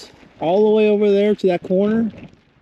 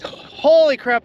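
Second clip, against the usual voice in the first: shouting over wind; 6 semitones higher, slower than usual. Real, not acted. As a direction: blurt it out over the gusts. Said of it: "this wind is insane".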